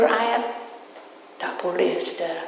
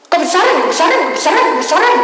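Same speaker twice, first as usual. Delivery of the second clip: much higher, loud chant; spirits shouting; 11 semitones higher, 13 dB louder, faster than usual. Retold or imitated. Spirits find the new coffin too big, high loud. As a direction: cry out that it's too big.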